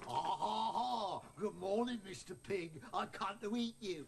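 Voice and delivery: mock wolf villain. The speaker mockingly plays the wolf.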